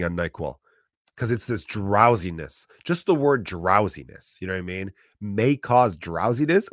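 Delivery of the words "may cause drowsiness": savoring excitement. Shown as a demonstration. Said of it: "I get excited reading that".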